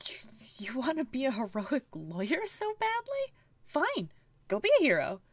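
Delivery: angry, disillusioned partner snapping back; bitter Falcon. Acted. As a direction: throw him the key in disgust. Player voices angry Falcon character.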